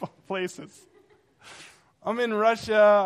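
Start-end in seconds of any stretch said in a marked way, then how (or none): 2.0-3.0 excited. Real, not acted. Excited retelling of Russia trip.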